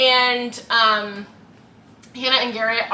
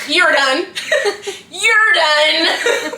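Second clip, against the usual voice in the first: loud, higher, laughing "you're done"; mock stern dismissal; 6 semitones higher, 6 dB louder, much slower than usual. Retelling the roommate throwing him out, loud mock stern. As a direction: kick him out with mock authority. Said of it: "he's like".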